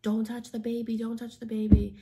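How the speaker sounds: hammed-up frantic yell; retold shout. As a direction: mimic the husband yelling to keep her away from the baby. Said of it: "Chris is like".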